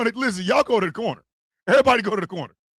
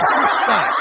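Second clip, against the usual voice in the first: laughing; 4 semitones higher, 5 dB louder than usual. Real, not acted. Laughing at his own joke.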